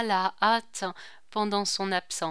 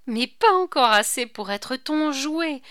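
defiant; 5 semitones higher, 6 dB louder than usual. A narrator's reading. Marie defies the marquis.

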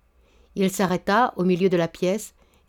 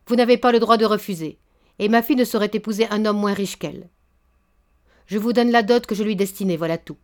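cutting him off. Acted. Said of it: "Le baron lui coupa la parole".

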